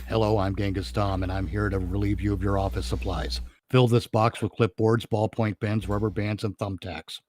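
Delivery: lightly voiced low flat Dragnet cop; a hint of Joe Friday, no emotion at all; Jack Webb deadpan. Villain demands office supplies in mild Dragnet deadpan. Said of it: "He has a voice like Jack Webb doing Joe Friday in Dragnet".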